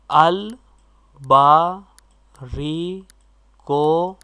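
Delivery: अल, बा, री, को called out loud, each syllable set apart. Shown as a demonstration. Teacher reading अलबारी कोके in chunks, loud and separate. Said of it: "तो क्यू यानी कू ए".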